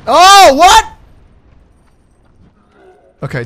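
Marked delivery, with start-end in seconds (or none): 0.1-0.9 very loud, high startled cry; high shocked outburst rising at the end; shocked disbelief. Real, not acted. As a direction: yell out in sudden surprise. Sudden shock in game.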